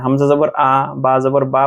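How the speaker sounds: আ and বা ending in an open "aa"; clear a-vowel. Shown as a demonstration. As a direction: open the final vowel wide on আ and বা. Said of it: "প্রতিটা আকার যুক্ত হচ্ছে". (আকার যুক্ত উচ্চারণে আ, বা)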